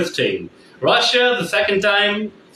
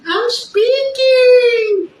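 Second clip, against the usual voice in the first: much higher, very slow, teasing parody voice; mock Kamala; 5 dB louder, much slower than usual. Vlogger parodies Kamala's line in a high, slow put-on voice. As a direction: drag it out in a sneering impression.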